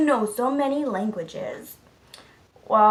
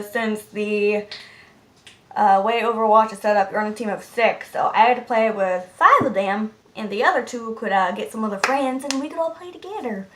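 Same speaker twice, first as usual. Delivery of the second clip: ordinary talk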